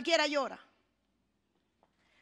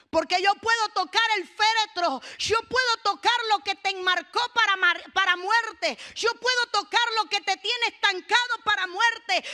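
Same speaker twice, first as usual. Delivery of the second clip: insistent, raised declaration in Jesus's voice; forceful preaching; 4 semitones higher, 4 dB louder than usual. Acted. Preacher speaks as Jesus who can touch the coffin, forceful preaching. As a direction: drive each promise home to the congregation.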